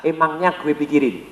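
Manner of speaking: a soft, slow shrug of a line; dismissive. Retold or imitated. Stubborn client brushing off the data, softly dismissive. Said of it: "Dia ngomong ke mana?".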